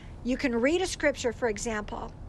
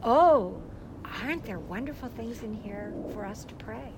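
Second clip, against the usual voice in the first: gentle prompt; 5 semitones lower than usual. Shown as a demonstration. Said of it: "That's what you do with the Word of God".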